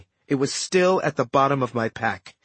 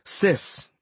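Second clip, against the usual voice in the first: gentle; 3 semitones higher than usual. Acted. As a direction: ease into a hard question. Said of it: "as gently as possible".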